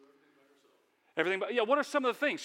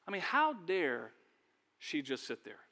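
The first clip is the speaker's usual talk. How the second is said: seething anger; 4 dB quieter than usual. Acted. Martha's quiet anger.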